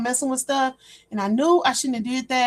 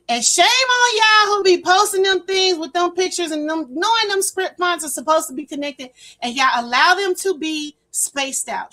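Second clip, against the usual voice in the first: scolding; 5 semitones higher, 4 dB louder than usual. Acted. Scolding y'all about spaced fonts.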